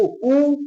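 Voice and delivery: उ pronounced alone and drawn out; sounded-out vowel. Shown as a demonstration. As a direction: isolate a long उ for learners to hear. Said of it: "उच्चारण करके देखो".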